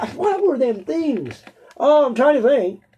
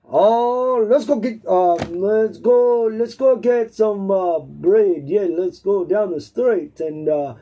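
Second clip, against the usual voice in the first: halting, rough stab at a German accent; attempted German accent; 2 semitones lower, slower than usual. Shown as a demonstration. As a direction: feel your way into a shaky German accent. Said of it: "do a German accent".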